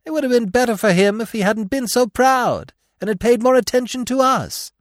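high, loud bird voice; croaking jay. A narrator's reading. Jay blaming the proud prince, loud croak. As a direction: squawk the reproach loudly. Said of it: "croaked the jay".

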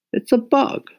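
high Mama voice, a verdict; mother declaring it only a bug; pronounced flatly. Acted. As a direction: deliver the final judgement as Mama. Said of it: "she pronounced finally".

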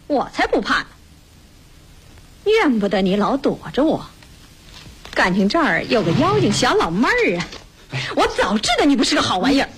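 swooping, indignant accusations; shouty accusation. Acted. Woman accusing him of hiding from her, shouty indignation. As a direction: rail at him, pitch jumping on the last jab. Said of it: "你别嚷".

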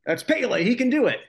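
a horrible put-on German accent for dad; bad German accent. Imitating his German dad cheering Pele in a bad German accent. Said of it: "Horrible impression of my dad. He's got the German accent".

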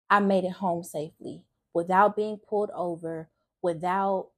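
holding back tears while testifying; getting emotional. Real, not acted. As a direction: voice welling up with real emotion. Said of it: "sorry, I'm getting emotional".

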